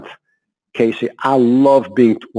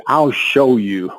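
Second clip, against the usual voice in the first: determined challenge; slower than usual. Retold or imitated. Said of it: "That was said with intention".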